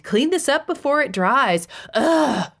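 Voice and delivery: high, whiny parody of his wife; mocking imitation. Husband mocking his wife's nagging, high whiny parody. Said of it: "he mocked".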